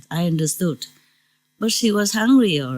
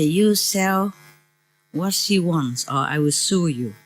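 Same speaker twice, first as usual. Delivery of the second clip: normal talking voice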